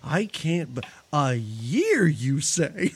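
low, slow scolding voice; a deep, drawn-out shaming tone; scolding mother. Retold or imitated. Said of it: "Lady Kazan is like".

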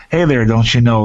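Minnesotan twang through the nose; pinched-nose Canadian-Minnesotan greeting; nasal Minnesotan accent. Shown as a demonstration. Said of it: "But it's nasal, so you gotta go".

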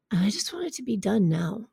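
near-whispered private admission; hushed inner plea; weary wish. Retold or imitated. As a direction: let it drop to a soft, tired whisper. Voices own weary inner thought.

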